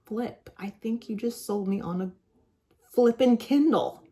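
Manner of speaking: hushed then rising mock disbelief; mock outrage. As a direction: whisper it, then burst out on flippin' Kindle. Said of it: "I'm like".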